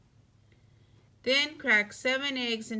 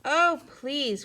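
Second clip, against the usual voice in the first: higher, louder eager begging; pleading cry; 5 semitones higher, 5 dB louder than usual. A narrator's reading. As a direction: kid begging to be allowed. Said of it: "cried Froggy".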